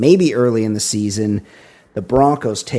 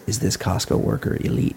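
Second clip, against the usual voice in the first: laughing; 4 dB quieter than usual. Real, not acted. Joke caption idea, laughing.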